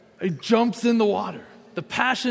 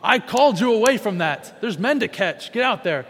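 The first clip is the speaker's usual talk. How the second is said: a touch of a stern rebuke, louder; mock scolding; 4 semitones higher, 5 dB louder than usual. Imagined Jesus scolding Peter for going back to fishing, mildly stern. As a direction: pretend to chew Peter out for fishing. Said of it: "He's not going".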